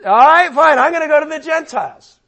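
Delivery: loud, high, exasperated outburst, then hurried; Paul, fed up. Acted. Preacher as Paul turning to the Gentiles, loudly exasperated. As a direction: snap it out as if done arguing. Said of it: "that's the tone".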